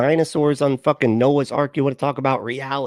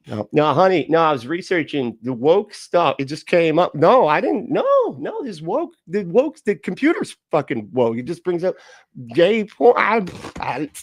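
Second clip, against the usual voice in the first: mock panicked excuses; 5 semitones higher than usual. Caught husband explaining himself to his wife, mock panic. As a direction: scramble to cover it up.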